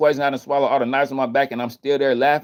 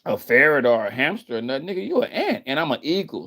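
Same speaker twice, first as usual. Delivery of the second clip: mock eagle voice; 4 semitones higher than usual. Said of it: "the ant shouldn't be trying to talk to an eagle".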